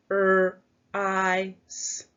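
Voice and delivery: each sound said apart with a pause between. Shown as a demonstration. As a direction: segment "F-R-I-S" sound by sound. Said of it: "let's sound out our word".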